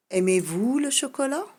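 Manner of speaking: high, loud question; question tune. Shown as a demonstration. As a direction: sing out the question. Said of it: "j'ai l'inversion du sujet". (question haute et appuyée)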